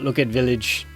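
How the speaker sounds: lightly voiced caveman at normal pitch; a hint of a caveman, held back; caveman voice, weaker take. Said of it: "That's probably better".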